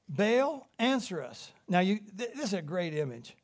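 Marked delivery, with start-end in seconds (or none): 0.1-1.5 pleading call. Retold or imitated. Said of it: "they called on the name of Baal".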